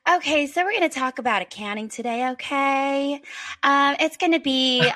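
imitated Midwest Southern presenter, lifted lilting ends; Midwest Southern accent. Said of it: "Midwest Southern accent".

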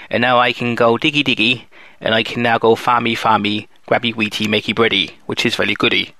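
put-on baby-talk a farm chore list; silly rustic voice. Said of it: "I can't get that voice up for long".

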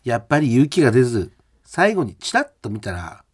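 lively radio mail reading, pitch often lifted; listener mail read. Acted. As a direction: read the letter aloud with animated, performed emphasis. リスナーのメールを読み上げる. (抑揚をつけたメールの朗読)

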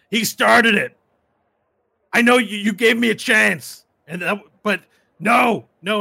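high, loud whining cry of unfairness; whiny protest. Acted. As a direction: wail it like a caught bully.

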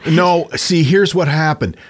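mock German accent; playful fake German accent. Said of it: "woke up with a German accent".

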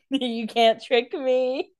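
slow, smug can't rise; smug mock quote. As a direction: drawl it like you can't be fooled. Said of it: "you were saying it like".

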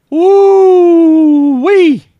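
loud high whoop of glee; wild hype shout; excited whoop. Real, not acted. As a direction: let out a delighted holler. Reacting to Jerry scandal tweets.

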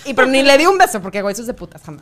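put-on loud posh Mexican fresa girl; Mexican fresa accent. Shown as a demonstration. Still playing the Mexican fresa girl, Mexican fresa accent. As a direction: keep the Mexican fresa voice going. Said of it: "Sí es el equivalente de".

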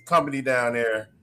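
low, halting, losing the word; stalling with blanks; brain freeze. Real, not acted. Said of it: "I got a damn brain freeze".

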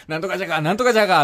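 a freshman chattering in Okayama dialect. Retold or imitated. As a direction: rattle off Okayama じゃが endings. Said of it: "いっぱいじゃがじゃが言ってたの".

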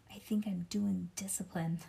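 put-on soft, subdued child's reply; kind of quiet. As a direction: say it quietly, holding back. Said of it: "let's say it quiet".

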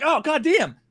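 pained exclamation. Retold or imitated. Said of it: "you're like".

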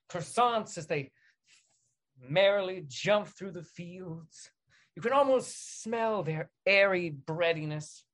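slow, wistful reverie; dreamy storyteller. Acted. Describing croissants in fields, slow dreamy narration. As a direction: linger on each image.

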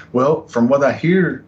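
drawn-out setup for a joke; joking. Retold or imitated. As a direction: stretch it out, mock-modest lead-in. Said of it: "I was joking with him when I said this".

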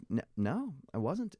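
high-pitched little protest; retold denial. Customer denying it to the old man, high protest. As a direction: deny it with the pitch climbing. Retold back-and-forth quarrel.

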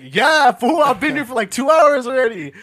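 mildly fed-up comeback to the barber; exasperated reply. Retold or imitated. Retold impatient reply to barber.

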